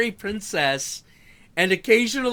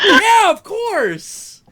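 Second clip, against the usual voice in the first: easy reply; 8 dB louder, much slower than usual. Retold or imitated. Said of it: "he's like".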